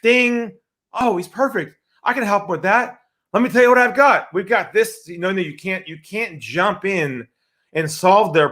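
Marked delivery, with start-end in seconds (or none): 0.0-5.1 eager inner voice. Retold or imitated. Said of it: "our brain goes".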